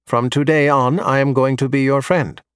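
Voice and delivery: put-on lightly tinny, old movie robot; a hint of a tinny droid. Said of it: "with a tinny voice reminding me of old Star Wars movies".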